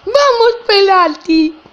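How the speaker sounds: excited yelling; loud shout. Real, not acted. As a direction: roar it out in triumph. Celebrating penalty in game.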